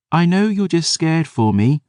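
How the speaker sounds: put-on high, tender young girl; a young girl pleading through tears; tearful girl. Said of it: "she said".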